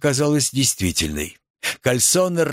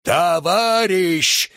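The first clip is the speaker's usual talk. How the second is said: roar like a siren; 6 semitones higher, much slower than usual. A narrator's reading. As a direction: wail it like a siren. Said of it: "заревел, как сирена". (заревел, как сирена)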